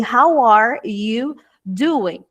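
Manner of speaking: very slow, drawn-out English demo with a falling end; slow model phrase. Shown as a demonstration. Teacher repeating the question for students, slowly and carefully. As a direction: spell out each word slowly for the class to echo. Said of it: "Então, eu falei".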